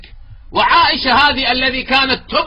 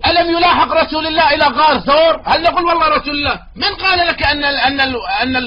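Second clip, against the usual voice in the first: heated rebuttal; 5 semitones higher than usual. Real, not acted. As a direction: hammer the rhetorical question home.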